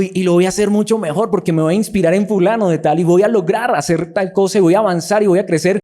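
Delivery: acted eager self-promotion. Praised believer vowing to do better, mildly hammed-up eagerness. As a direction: play someone getting carried away with their plans. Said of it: "Y entonces digo".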